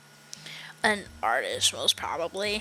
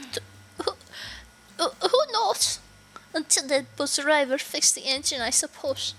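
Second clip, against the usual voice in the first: French guest; 4 semitones higher than usual. Acted. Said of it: "she's supposed to be French".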